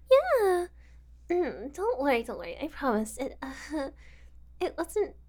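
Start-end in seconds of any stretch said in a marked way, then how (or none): 2.2-2.6 soft repeat. Acted. Kidnapper soothes her guest before the basement, hushed. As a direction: drop to a hushed, softer don't worry.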